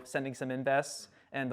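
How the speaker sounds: plain reading voice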